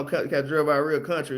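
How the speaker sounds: normal talking voice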